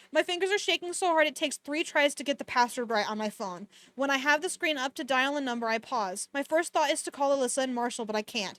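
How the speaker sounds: even-paced audiobook-style reading; story narration. A narrator's reading. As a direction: read the novel aloud, understated and steady. Reads the novel aloud.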